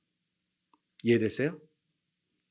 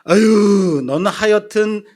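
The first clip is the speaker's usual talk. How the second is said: exasperated groan; 7 semitones higher, 7 dB louder, slower than usual. Retold or imitated. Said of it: "제가 말했습니다".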